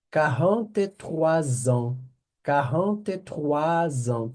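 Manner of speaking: Quarante-trois ans linked as trwazan, slow; teacher showing the French liaison. Shown as a demonstration. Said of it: "a gente faz uma ligação".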